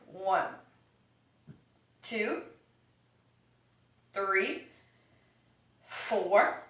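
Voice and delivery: counting between hiccups; hiccupping through the count. Real, not acted. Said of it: "Add the hiccups if you're wondering why I'm being weird".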